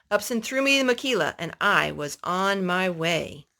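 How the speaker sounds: steady storybook reading voice; reading a story to a little boy; story narration. Acted. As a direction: read it like a picture book to a child. Adult reading a story aloud.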